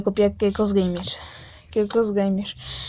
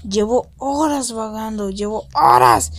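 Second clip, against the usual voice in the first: queja lastimera. Pretend. Quejándose de vagar perdido.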